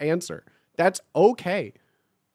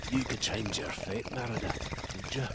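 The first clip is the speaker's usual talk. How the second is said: low, soft Scottish brogue, much lower and softer than her own; lower Scottish take; 9 semitones lower, 11 dB quieter than usual. Acted. Streamer retrying the Merida line, low and soft Scottish brogue. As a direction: drop it down and murmur it in a Scottish brogue. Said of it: "Which kind of Scottish lass?".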